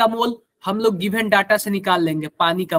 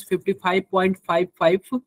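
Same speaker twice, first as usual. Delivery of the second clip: very slow, number by number; slow dictation; much slower than usual. Real, not acted. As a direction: spell out the figures slowly while writing. Writing out the equation while speaking. (धीरे-धीरे लिखवाते हुए)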